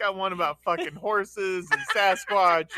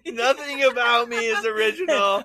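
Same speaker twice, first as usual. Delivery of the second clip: desperate plea; 7 semitones higher, 5 dB louder than usual. Pretend. Acted single man pleading.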